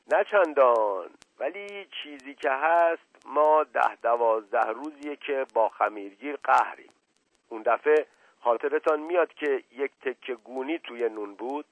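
lightly voiced evasive servant; a hint of a humble servant, hedging as he reports; reluctant servant. Servant explains his quarrel.

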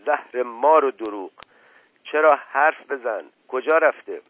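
loud, high irate snap; exasperated master demanding an answer; angry interruption. Acted. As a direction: cut him off with a curse. Uncle cuts servant off, cursing.

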